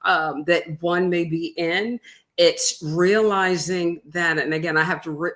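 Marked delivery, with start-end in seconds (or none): 2.4-4.4 realizing drawn out slowly and leaned on; slow down and weigh the word realizing; emphasis on realizing. Real, not acted. Guest stressing realizing to the interviewer, slow and weighted. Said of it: "emphasize that word realizing".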